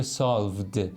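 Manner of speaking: سالوود ending in a voiced "d"; teacher's سالوود with a clearly released d; final d sound. Shown as a demonstration.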